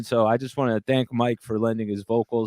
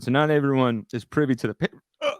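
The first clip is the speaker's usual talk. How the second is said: burp breaking the sentence; burping the words; faster than usual. Real, not acted. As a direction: talk through a burp. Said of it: "Burp it out and then get into it".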